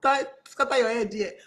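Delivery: mock indignant outburst. Candidate threatening a stingy company in jest, mock indignant.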